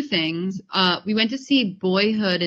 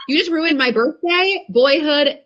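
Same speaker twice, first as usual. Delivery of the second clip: higher-pitched mock indignation; retold outrage; 4 semitones higher than usual. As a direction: act out an outraged reply to the ex. Retelling her outraged reply to ex.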